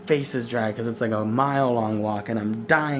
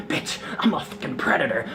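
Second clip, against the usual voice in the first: breathy, laughing mock-predator line, pitched up; laughing mock menace; 9 semitones higher than usual. Vlogger joking about spying on passengers, laughing. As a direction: play the creep while cracking up.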